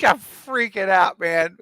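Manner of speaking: hammed-up panicked cry; acted panic. Re-enacting his childhood panic in theater.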